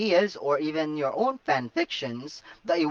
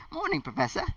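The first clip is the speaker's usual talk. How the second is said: cheerful; 12 semitones higher, 4 dB quieter, faster than usual. Acted. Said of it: "Harry said cheerfully".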